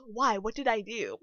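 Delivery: loud, offended protest; indignant customer. Retold or imitated. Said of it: "And she goes".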